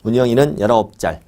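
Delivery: short-tongued "짤", a tch sound replacing the s of 살; lisping baby talk. Shown as a demonstration. Teacher drilling a mnemonic for students, lisped "짤". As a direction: say "짤" like a lisping child. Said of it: "혀 짧은 소리 좀 내야 돼요".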